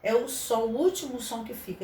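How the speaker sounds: usual speaking voice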